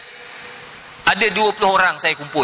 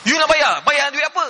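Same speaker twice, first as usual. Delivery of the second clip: higher-pitched indignant questioning; mock angry husband; 4 semitones higher than usual. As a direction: challenge her, imitating an annoyed husband. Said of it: "Dia marah".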